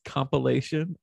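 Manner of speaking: "compilation" said the common way; standard pronunciation. Shown as a demonstration. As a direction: say "compilation" smoothly, without splitting syllables. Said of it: "Every other person I've known or heard says".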